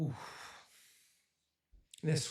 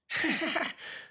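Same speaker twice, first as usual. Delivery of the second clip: embarrassed laugh; 12 semitones higher than usual. Real, not acted. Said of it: "This is a children's story, guys".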